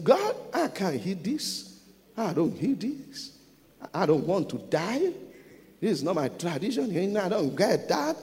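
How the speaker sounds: lightly put-on American accent, slowed down; mock American English accent. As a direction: protest in a playful imitation American accent. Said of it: "mo ń sọ American English".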